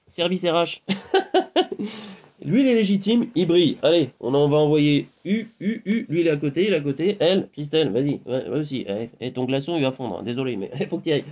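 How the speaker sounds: a lightly voiced, brisk Dolores handing out jobs; Dolores dispatching. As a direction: play Dolores briskly sending everyone off. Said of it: "calibré par Dolores qui dit". (Dolores qui distribue les missions, voix à peine modifiée)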